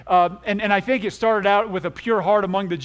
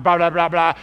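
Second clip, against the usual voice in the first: louder blah blah stammer; mock babble; 5 dB louder than usual. Shown as a demonstration. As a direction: show mindless babbling. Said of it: "like a stammering of the tongue".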